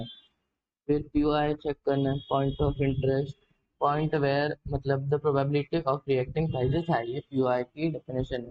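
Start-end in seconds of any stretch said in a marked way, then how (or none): 2.3-7.0 very slow, word by word; slow dictation. Shown as a demonstration. Teacher to students, dictating the definition very slowly. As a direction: spell the definition out slowly for notes.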